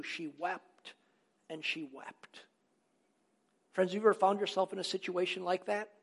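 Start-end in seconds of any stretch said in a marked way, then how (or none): 0.0-2.4 dropping the voice on she wept; hushed, grieving repetition; softened. A narrator's reading. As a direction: let the words fall away quietly in sorrow. Preacher dwelling on Mary's grief.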